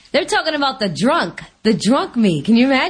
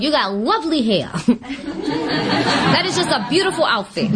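mock compliment; slower than usual. Shown as a demonstration. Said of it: "what I used to start doing is going".

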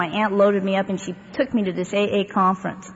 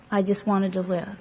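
softer repeat; 6 dB quieter than usual. Real, not acted. To the meeting, repeating she wanted to live, softly. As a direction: repeat it much softer, almost to herself. Repeats the line, then drops it.

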